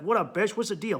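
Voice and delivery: cocky, dismissive greeting; the wrong way to ask your wife; rude demand. Shown as a demonstration. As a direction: bark it at her like a jerk. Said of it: "just walk up and be like".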